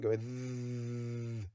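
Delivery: th- said slow and breathy, tongue between teeth; exaggerated th practice. Shown as a demonstration. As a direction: drag out th- with the tongue out. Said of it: "stick your tongue out between your teeth".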